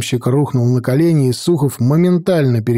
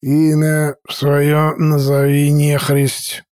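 slow, thick-tongued interrogation; slurred drunk; slower than usual. Acted. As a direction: drag the words with a heavy tongue. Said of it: "поворочил он языком".

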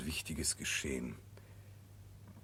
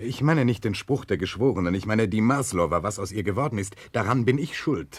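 louder, pressing confession; emphatic insistence; 2 semitones higher, 5 dB louder than usual. Acted. Nechludow insists to the prosecutor that the guilt is his, raised voice. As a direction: push it hard against his doubt.

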